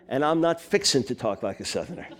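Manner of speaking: chuckling through a playful denial; laughing. Real, not acted. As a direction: let a laugh slip into the line. Joking about Southern speech.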